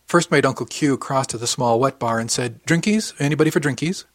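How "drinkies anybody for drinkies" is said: higher, cheery host offering a round; calling out drinks. A narrator's reading. Uncle offering the room drinks, calling out cheerily. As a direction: lift it into a chirpy question.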